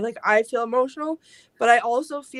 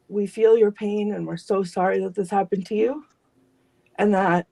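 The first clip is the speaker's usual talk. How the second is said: tender reassurance. Real, not acted. Comforting message to grieving spirits.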